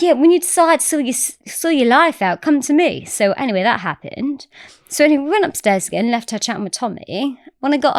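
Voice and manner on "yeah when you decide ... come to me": rough go at Australian; not-quite-Australian accent; attempted Australian accent. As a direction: imitate a scolding Australian woman. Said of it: "Is that an Australian accent?".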